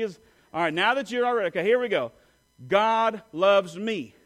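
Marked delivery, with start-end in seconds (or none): 2.7-4.1 slow, loud and glad, for the church to echo; joyful call. Shown as a demonstration. Preacher leading the church in a joyful repeat. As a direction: proclaim it with joy. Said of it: "I want you to repeat after me".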